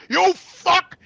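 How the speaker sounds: hammed-up furious yell; retold cursing. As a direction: spit the curse across the lot. Cursing at her in parking lot.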